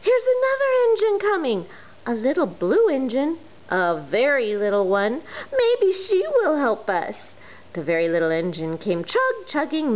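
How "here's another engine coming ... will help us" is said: much higher, fast excited call; excited clown. Acted. Clown calling out about the blue engine, excited. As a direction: burst out with new hope. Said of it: "the little clown called out".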